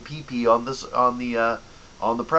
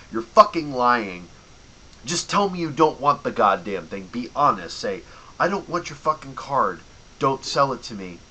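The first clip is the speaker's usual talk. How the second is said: blunt angry callout; 3 dB louder than usual. Pretend. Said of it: "I'm seriously not allowed to say".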